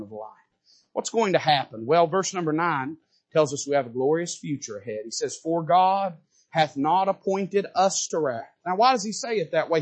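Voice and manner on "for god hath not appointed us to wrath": slow, deliberate reading of us to wrath; slow scripture read. Shown as a demonstration. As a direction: read it slowly, weighing each word. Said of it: "He emphasizes".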